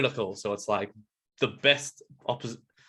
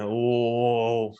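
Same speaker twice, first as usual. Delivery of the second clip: slow, wary gorilla voice; pondering creature, a touch of distrust; suspicious gorilla; much slower than usual. Acted. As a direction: mull it over suspiciously, drawing out the words. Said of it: "start getting a bit suspicious".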